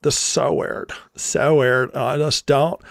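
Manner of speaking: put-on airy Valley Girl drawl; mock a Valley Girl, vowels stretched; hammed-up Valley Girl accent, softly appalled. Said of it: "if I was a Valley Girl".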